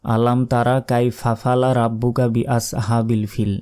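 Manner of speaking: আলাম তারা said with a full final a on তারা; mispronounced আলাম তারা; wrong pronunciation. Shown as a demonstration. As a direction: demonstrate the common mistake আলাম তারা. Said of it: "এটা কিন্তু সম্পূর্ণ ভুল".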